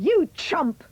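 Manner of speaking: high, loud yell of contempt. A narrator's reading. Mother yelling at Jack over the bean, angry yell. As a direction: yell it at the boy. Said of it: "she yelled".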